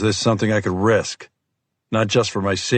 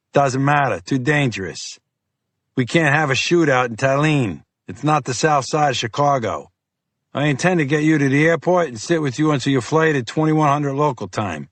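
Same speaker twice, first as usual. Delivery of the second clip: gruff FBI agent; 5 semitones higher than usual. Acted. Fiore voiced by narrator.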